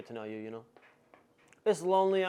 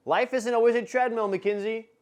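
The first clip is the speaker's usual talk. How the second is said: ALWAYS stressed, louder and higher; emphatic repeat; 7 semitones higher, 8 dB louder than usual. Real, not acted. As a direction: punch "always" in "Life isn't always a treadmill". Repeats line louder to Mackenzie.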